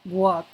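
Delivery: WHAT said alone and carefully; a lone, deliberate WHAT for learners; model pronunciation. Shown as a demonstration. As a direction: pronounce WHAT as a clear teaching example. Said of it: "La pronunciación es importante".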